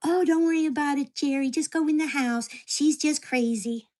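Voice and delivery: mock reassurance through a big smile, slowing at the end; imitated smiling neighbor. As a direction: brush it off like a falsely cheery neighbor. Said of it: "opens up the door with a big smile on her face".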